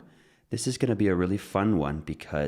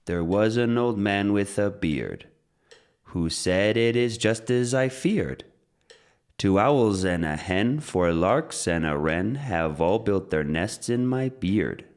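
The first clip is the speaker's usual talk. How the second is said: limerick recital; 2 semitones higher than usual. Shown as a demonstration. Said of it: "we're going to set the metronome".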